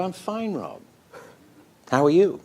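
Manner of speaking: high, too-bright fake casual voice; high fake cheer. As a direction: squeak out a cheery lie to hide the pain. Faking fine to the director.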